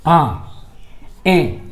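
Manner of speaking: "आ" and "ए" sounded through the nose; nasal "आ", "ए" for a Hindi class; nasalised vowel demo. Shown as a demonstration. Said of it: "नाक से भी ध्वनि बाहर आ रही".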